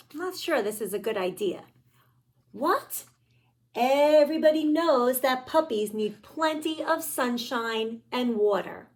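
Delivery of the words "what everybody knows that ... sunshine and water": indignant pigeon. Acted.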